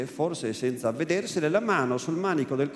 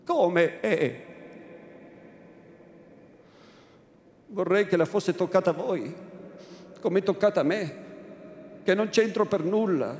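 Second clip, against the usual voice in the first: almost disdainful. Acted. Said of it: "Rispose con voce quasi sdegnosa".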